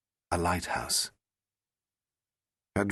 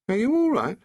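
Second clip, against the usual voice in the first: high, louder anxious question; the Doctor, concerned; 6 dB louder than usual. Acted. Doctor asking the just-woken Rose, concerned. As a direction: reach out to her with worry.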